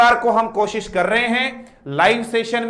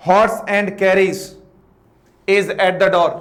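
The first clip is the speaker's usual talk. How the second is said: very slow, each word laid out; slow model reading; much slower than usual. Shown as a demonstration. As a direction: read it out slowly for the class. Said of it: "ठीक है भाई". (धीमी, साफ़ पढ़ाई)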